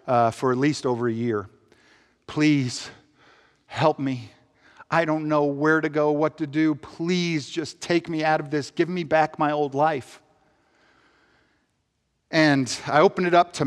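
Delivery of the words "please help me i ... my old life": soft, broken-down plea; pleading prayer. Retold or imitated. Retelling the prayer he prayed for a year, soft and pleading. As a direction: pray it low and weary. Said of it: "this is the prayer I had".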